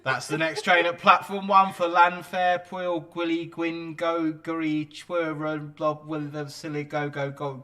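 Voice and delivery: loud, slow platform announcer voice; train station announcement. Pretend. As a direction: call it out over the station tannoy. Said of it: "I'll start the announcement".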